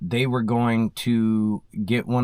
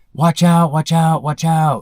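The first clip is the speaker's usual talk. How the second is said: urgent scream, high and loud; 6 semitones higher, 8 dB louder than usual. Retelling how she warned her grandsons: imitating someone screaming. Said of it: "she starts screaming, like".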